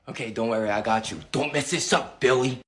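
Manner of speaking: low, hushed conspiratorial whisper. Acted. Boy reminds brother of the cover story, hushed. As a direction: keep it down so Mom won't hear.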